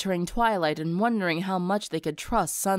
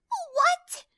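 shout. Acted. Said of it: "Rainbow shouted".

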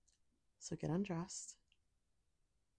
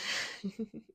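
short, higher-pitched giggle; teasing giggle; 5 semitones higher than usual. Acted. Amused by the partner, teasing giggle. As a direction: giggle at their protest.

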